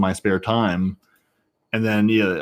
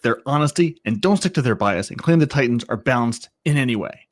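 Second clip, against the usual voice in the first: angry voice; 3 semitones higher than usual. Acted. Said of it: "Just do the angry voice".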